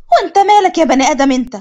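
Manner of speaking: rude retort. Acted. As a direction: snap back at him. Rude girl snaps at driver.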